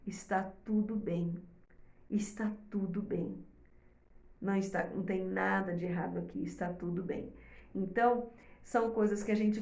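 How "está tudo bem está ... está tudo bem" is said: put-on soft, lowered reassurance to a baby; calm the baby down gently; reassuring. Shown as a demonstration. Mother reassuring her baby, soft and calm. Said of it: "a sinalização que você tá dando é".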